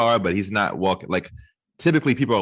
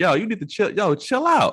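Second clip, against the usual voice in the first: acted, very high, climbing shouted yell; 11 semitones higher than usual. Retelling yelling at a drunk man trying to open the car door: imitating their own yelling. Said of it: "we're both yelling".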